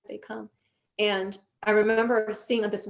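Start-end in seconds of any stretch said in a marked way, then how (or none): 0.1-0.5 soft, hushed soothing of an upset loved one; retold comforting. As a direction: gently talk them down, voice softened. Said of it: "was trying to comfort me".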